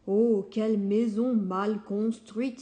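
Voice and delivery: mild astonished outcry; exclaiming. Acted. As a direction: gasp at the shoddy house. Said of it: "s'écrie-t-il".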